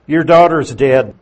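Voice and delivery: loud, blunt blow of bad news; blunt announcement. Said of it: "Now notice how blunt this message is".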